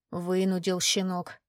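slow words through gritted teeth. Acted. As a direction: grind it out between teeth. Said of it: "Князь цедил сквозь зубы".

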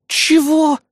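"Чего?" flung out high, loud and outraged; a sharp, high-pitched "Чего" of indignation; indignant outburst. A narrator's reading. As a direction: bristle with offended disbelief. Kri explodes at the insult.

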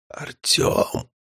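barely audible breathy call; whisper. Acted. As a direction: whisper the name weakly. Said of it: "на этот раз это был обычный шёпот". (обычный шёпот)

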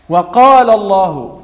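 وقال with its long vowel drawn out slowly; demonstrating the madd. Shown as a demonstration. Teacher demonstrates the vowel length to students, slowly. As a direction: stretch the alif of وقال, held slowly. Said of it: "قال اثنين".

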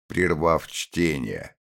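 ordinary delivery

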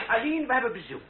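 high, loud call with a laugh. Acted. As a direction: call upstairs to the niece cheerfully. Chevalier calls out to niece. (lachend en luid roepen naar de nicht)

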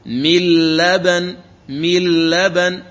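من لبن said slowly as mil-laban; doubled lam. Shown as a demonstration. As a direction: drag out من لبن, nun swallowed into the l. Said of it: "فتصير لاما مشددة".

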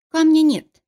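high, strained insistence; desperate whisper. A narrator's reading. Cornered wife insists the stone is gone, strained desperate voice. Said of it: "прошептала она".

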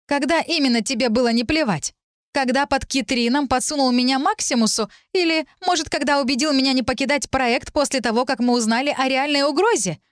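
high-pitched accusing questions; angry reproach. A narrator's reading. Heroine confronting Lir with grievances, indignant. Heated quarrel, listing grievances.

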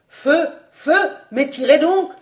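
high, loud frantic yell; howled order. A narrator's reading. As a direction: scream at them to fire. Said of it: "hurla Vaunois".

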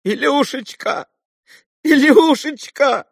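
high, slow, rising sobbing exclamation; weeping cry. A narrator's reading. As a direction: cry the name out in grief. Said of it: "восклицала она".

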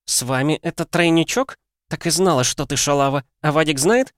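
высоко, язвительно, с издёвкой; ревнивая подруга язвит; злая насмешка. A narrator's reading. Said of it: "зло рассмеялась". (язвительно, высоким голосом)

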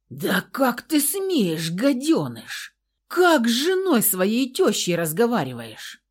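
father fighting to get free, shouting; outraged father's shout. A narrator's reading. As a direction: roar at the son-in-law in fury.

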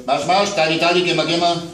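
father shooing monsters toward the balcony door; bossy shouting. A narrator's reading. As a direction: herd the monsters out briskly.

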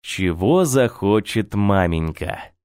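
ordinary delivery

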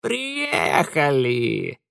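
very slow croaking caw; cawing creature. A narrator's reading. Mara caws as she flies off, very slow croak. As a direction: caw it like a crow spirit. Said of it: "каркнула Мара".

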